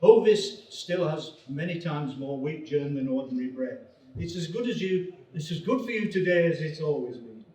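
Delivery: serious advert read in received pronunciation; mock-prestigious RP voiceover. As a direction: deliver it in earnest RP. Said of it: "needs to be delivered in received pronunciation".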